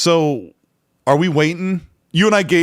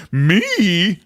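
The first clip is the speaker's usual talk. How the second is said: retold disbelief; 4 semitones higher than usual. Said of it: "He's like".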